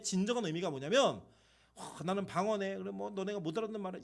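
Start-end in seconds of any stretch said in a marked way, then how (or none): 1.7-4.0 smug boast. Pretend. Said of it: "이게 아니고요".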